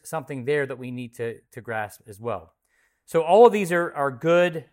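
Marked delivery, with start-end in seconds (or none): 3.1-4.6 loud, higher praise of the answers. Real, not acted. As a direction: cheer the class on for their answers. Teacher praises class answers.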